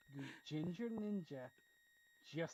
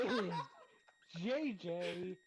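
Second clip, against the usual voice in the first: grand announcer; 5 dB louder than usual. Pretend. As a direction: present it like a showman. Presenting new profile picture.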